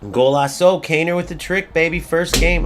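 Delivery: high, lively commentator-style celebration; excited goal call. Real, not acted. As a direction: celebrate the hat-trick like a commentator. Calling out his goal in game.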